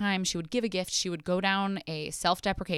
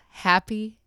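excited; 4 semitones higher, 7 dB louder than usual. Real, not acted. Cheerful sign-off to listeners.

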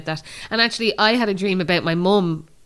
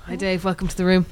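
breathy voice. Shown as a demonstration. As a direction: let the breath carry every word. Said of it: "she's all very breathy there".

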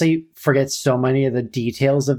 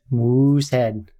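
slow Canadian accent; much slower than usual. Shown as a demonstration. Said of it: "why can't I do a Canadian accent".

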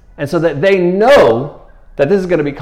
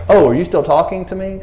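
feigned surprise; 4 semitones higher than usual. Retold or imitated. Acting Jesus ignoring the accusers.

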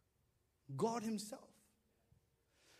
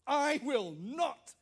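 slow, loud flat refusal; a kid's stubborn refusal, slowed and louder; defiant kid; 5 semitones higher, 8 dB louder, slower than usual. Retold or imitated. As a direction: dig your heels in, word by word.

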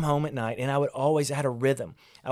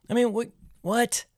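higher, baffled at his own words; incredulous what; 9 semitones higher than usual. Real, not acted. Dad mocking his own car advice, higher and incredulous. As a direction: pitch up in disbelief at himself.

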